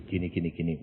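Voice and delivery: God's voice. Retold or imitated. God's low answering voice.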